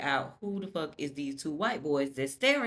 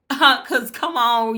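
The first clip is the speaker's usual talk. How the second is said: laughing; 6 semitones higher, 9 dB louder, much slower than usual. Real, not acted. Laughing at Unique's comeback.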